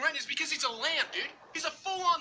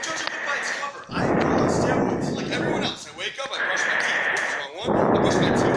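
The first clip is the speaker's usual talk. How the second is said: loud meathead; 2 semitones lower, 6 dB louder than usual. Acted. Steroid guy bragging loudly.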